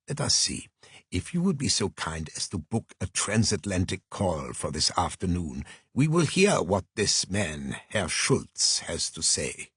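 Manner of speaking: a hint of a measured, formal sleuth; mildly reserved, precise, weighing the case aloud; lightly voiced formal detective. Detective weighing the invitation with his assistant, lightly voiced, formal.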